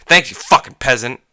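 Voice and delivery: sneer-like thanks with the swear thrown in; imitated customer insult. Speaker shows manager how customer insulted them, mocking. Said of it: "this is how he said it".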